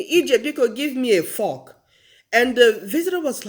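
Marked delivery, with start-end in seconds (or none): 0.0-1.8 dad's request with fork said r-less, "fawk"; Nigerian pronunciation. Retold or imitated. Dad asking daughter before a visitor, fork as "fawk". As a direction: drop the R in fork, near "fawk". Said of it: "my dad said to me".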